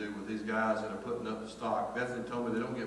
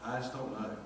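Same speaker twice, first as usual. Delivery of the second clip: softer, dejected reply; downcast; 7 dB quieter than usual. Retold or imitated. Worker who was really down answering a passer-by, downcast. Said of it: "one guy was really down one day".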